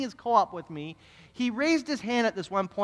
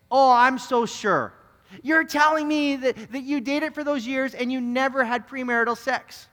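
sarcastic disbelief; 5 semitones higher than usual. Retold or imitated. Student mocking pastor's denial.

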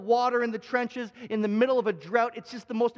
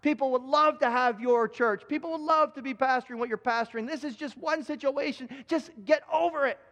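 scolding wife; 3 semitones higher than usual. Retold or imitated. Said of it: "will always scold him and say".

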